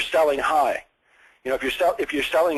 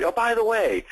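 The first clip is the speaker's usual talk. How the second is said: higher-pitched, as if it just occurred; sudden afterthought; 8 semitones higher than usual. Shown as a demonstration. Sales coach acting out a softener, casual afterthought. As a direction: act as though you only now thought of it. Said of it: "like it really is just something that occurred".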